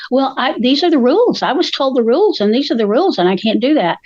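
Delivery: lightly imitated sing-song recitation; mock helpless server, lilting up and down; rule-bound server. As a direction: recite it by rote like a trainee.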